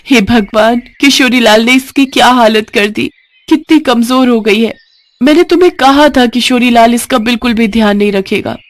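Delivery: a wife welcoming the goat back in distress; relieved, upset wife. Acted.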